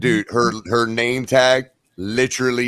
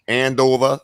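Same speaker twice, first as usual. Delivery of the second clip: "Andover" said the local northern way, higher; northern accent; 3 semitones higher, 3 dB louder than usual. Real, not acted. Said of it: "like a northerner".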